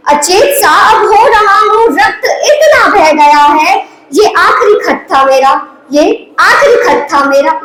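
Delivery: lilting stage recital, lines repeated for effect; poem recitation. Acted. Wounded soldier writes his last letter to his wife, declaimed as verse.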